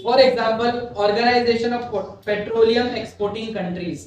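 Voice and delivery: very slow, word by word dictation. Shown as a demonstration. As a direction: dictate each word so it can be written. Dictates notes to student.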